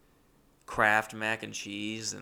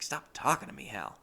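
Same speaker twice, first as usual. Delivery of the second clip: mildly annoyed retort, pitched up then dropping; 3 semitones higher than usual. Retold or imitated. Narrator to chatty roommate, mildly annoyed. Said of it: "I was always just kind of annoyed".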